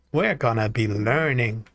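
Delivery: lightly voiced cartoon child impression; a playful attempt at a simple-minded kid; Ralph Wiggum. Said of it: "That's my best Ralph Wiggum voice".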